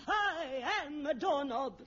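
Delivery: slow, mock-tearful "I am a doorknob"; hammed-up tearful method acting. Shown as a demonstration. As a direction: overplay the doorknob with a mock sob. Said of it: "Imagine that you are a doorknob".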